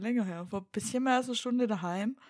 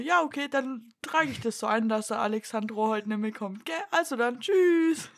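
mock receptionist; 3 semitones higher, 4 dB louder than usual. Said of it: "du hättest auch einfach sagen können".

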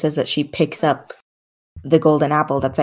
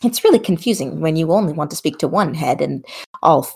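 chatty sassy older woman, lightly voiced; sassy grandma goddess; faster than usual. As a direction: gossip like a doting grandma. Plays god character.

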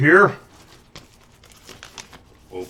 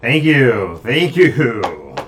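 mystic seer; 2 semitones higher, 4 dB louder, slower than usual. Acted. Mystic reads answers.

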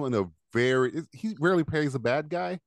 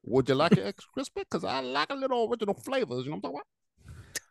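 McConaughey impression; 10 semitones higher than usual. Host clowning as a fried chicken clerk, doing a light Southern movie-star voice. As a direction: lean into a lazy Texan charm, lightly. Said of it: "Listen to McConaughey".

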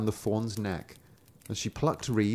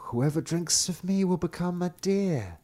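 talking brook; 7 semitones higher than usual. A narrator's reading. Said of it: "how it said as it ran".

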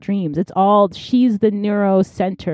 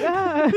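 mock scream; 9 semitones higher than usual. Francis running out of the burning house, mock scream. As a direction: playfully imitate someone yelling "ah".

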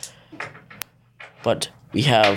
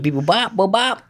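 robot beeps; 8 semitones higher than usual. Pretend. Mocking alien robot talk.

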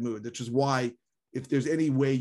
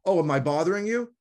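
sarcastic; 6 semitones higher, 5 dB louder than usual. Retold or imitated. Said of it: "she goes".

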